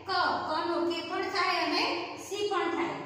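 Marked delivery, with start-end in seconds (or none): 0.1-0.1 ક as a lone "ka" syllable; letter sound. Shown as a demonstration. Teacher giving the sound of C, ક said "ka". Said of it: "નો ઉચ્ચાર થશે".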